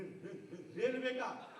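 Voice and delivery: low stutter on रे-; stammering friend. Retold or imitated. Stammering friend naming the railway, halting. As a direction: catch on रे- thrice then release. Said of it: "हकला".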